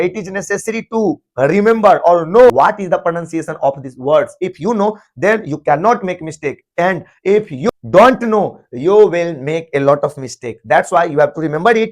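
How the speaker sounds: slow, careful English, each word spaced out; slow emphatic English. Shown as a demonstration. Teacher to class, restating the rule in slow English. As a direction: spell it out slowly for learners. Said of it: "switches to slow English".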